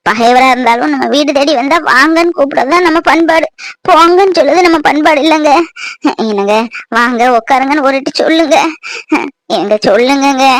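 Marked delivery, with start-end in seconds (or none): 6.2-10.5 tearful plea. Acted. Wife pleads tearfully with husband.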